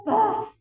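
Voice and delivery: loud imitated slap; slap sound. Pastor imitating the slap she received, loudly. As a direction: smack the word out loud.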